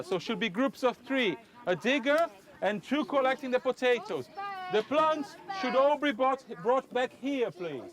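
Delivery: teacher raising her pitch to reach pupils outdoors; calling to the class. Real, not acted.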